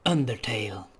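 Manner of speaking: hushed title whisper. Real, not acted.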